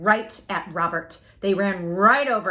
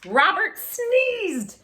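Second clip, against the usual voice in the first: dramatic climax; 10 semitones higher, 4 dB louder, much slower than usual. A narrator's reading. Climax sneeze narrated.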